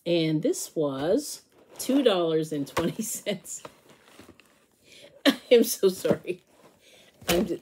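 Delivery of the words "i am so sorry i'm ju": apologizing through giggles; real helpless laughter. Real, not acted. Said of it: "this is just making me laugh".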